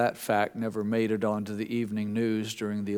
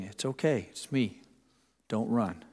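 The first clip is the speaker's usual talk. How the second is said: gentle father; 6 dB quieter than usual. Retold or imitated. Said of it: "his father's voice saying".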